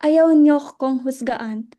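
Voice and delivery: loud, hurt insistence at the group. Acted. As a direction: plead hard, voice pushed up in distress. Luella pleads against being judged.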